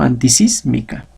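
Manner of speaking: "Antisísmica" with the accent on SÍS; stress on SÍS. Shown as a demonstration. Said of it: "la última mantiene su acento".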